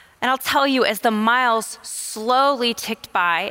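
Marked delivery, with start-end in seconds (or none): 1.8-2.7 stressed 'slowly', said slower. Telling about a hard race she mostly walked; emphasis on 'slowly'. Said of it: "emphasis on slowly".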